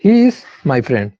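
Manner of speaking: slow reading. Shown as a demonstration. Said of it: "पहला sentence देखो".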